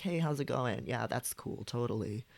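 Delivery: soft casual voice. Shown as a demonstration. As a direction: dial the authority back, relaxed and light. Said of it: "this is more like".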